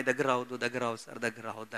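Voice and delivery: low, soft, understated pleading; imitated distressed plea. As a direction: plead quietly as the distressed girl, lightly acted. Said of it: "అని బాధపడుతుంది".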